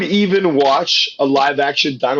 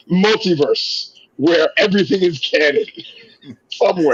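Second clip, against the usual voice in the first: trailer voice; 5 semitones higher than usual. Shown as a demonstration. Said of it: "Ooh, that's a good line".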